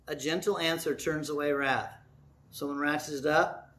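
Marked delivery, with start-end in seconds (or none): 0.1-1.9 soft quiet scripture. Shown as a demonstration. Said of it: "you be quieter, you slow down".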